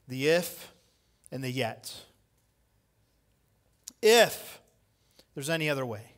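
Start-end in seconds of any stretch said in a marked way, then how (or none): 4.0-4.6 high, loud, drawn-out "If"; stressed if. Acted. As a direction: hit "If" hard and high before a pause. Preacher stressing the word if.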